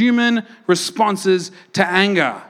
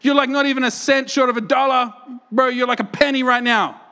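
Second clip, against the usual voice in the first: mocking bro insult; 5 semitones higher than usual. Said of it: "He's talking like that".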